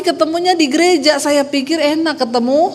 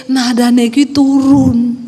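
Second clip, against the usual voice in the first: slow, falling teaching tone; slow falling instruction; 4 dB louder, slower than usual. Retold or imitated. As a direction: teach the falling Javanese melody. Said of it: "husband teaching the falling tune". (suami mengajari nada turun pelan-pelan)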